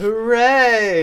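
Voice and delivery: high, loud little cheer; excited cheer. Real, not acted. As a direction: cheer like the show just started. Stream goes live, cheering.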